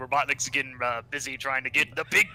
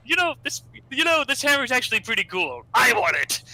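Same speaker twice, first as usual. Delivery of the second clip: greedy Orbot; 10 semitones higher, 4 dB louder than usual. Retold or imitated. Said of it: "Orbot's like".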